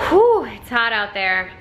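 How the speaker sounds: hot and winded after a bike ride; overheated. Real, not acted. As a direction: puff it out, overheated. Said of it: "Mostly dying 'cause it's hot".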